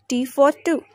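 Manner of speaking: "for" short and reduced; weak form of FOR. Shown as a demonstration. Teacher showing learners weak forms, "for" as a short 'fuh'. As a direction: run "for" quickly into "two". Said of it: "We pronounced in a weak form".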